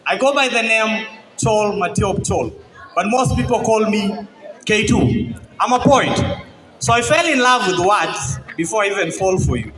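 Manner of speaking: measured love-poem recitation to a crowd; spoken word poem. Acted. Poet addresses his future wife, spoken word recitation. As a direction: declaim it phrase by phrase, letting pauses land.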